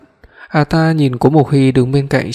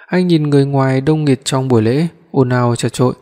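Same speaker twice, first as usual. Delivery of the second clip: usual speaking voice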